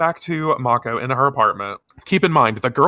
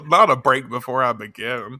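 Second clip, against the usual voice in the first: laughing. Real, not acted. Laughing at cohost's study habit.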